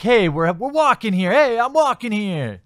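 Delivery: high, loud mock protest from a guy in the street; indignant pedestrian. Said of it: "The guy's probably like".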